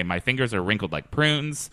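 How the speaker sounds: light English accent. Shown as a demonstration. Host demonstrating the podcast tagline, in an English accent. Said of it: "move to an English accent".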